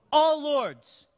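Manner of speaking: loud, punched answer to his own question; preacher shouting the answer back to the pews; called-out answer. Acted. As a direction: belt out the answer for the church. Call and response with congregation.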